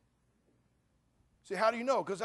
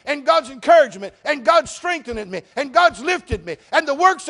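full-force preaching; 5 semitones higher, 14 dB louder than usual. Acted. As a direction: lift the congregation with rising force. Preaches God's blessings.

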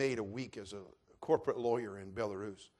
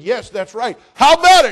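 much higher and louder, urgent pulpit appeal; loud pressing appeal; 12 semitones higher, 24 dB louder than usual. Acted. Preacher urging Dimitri to accept, at full shout. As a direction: push him to decide right now.

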